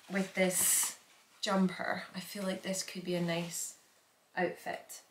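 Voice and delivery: soft unvoiced whisper. Real, not acted. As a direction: drop to a whisper. Aside while holding up outfit.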